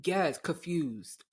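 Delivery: slow "confused" said as kuh-FYOOZD with no N; mispronounced confused. Shown as a demonstration. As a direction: drag out "confused" missing the N. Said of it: "they dropped the N".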